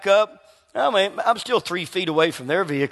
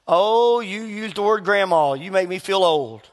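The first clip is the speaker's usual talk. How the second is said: mock offended. Preacher mimicking offended people to the congregation, mock offended. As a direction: imitate someone easily offended.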